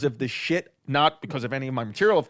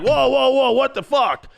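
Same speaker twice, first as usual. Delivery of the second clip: high, loud startled protest; dad startled by the scream; 9 semitones higher, 6 dB louder than usual. Retold or imitated. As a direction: back off in shock.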